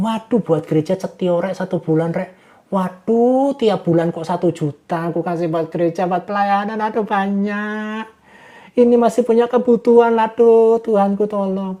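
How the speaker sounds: mock groan over money; grumbling churchgoer. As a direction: play a stingy member moaning about tithes. Congregant complaining about giving.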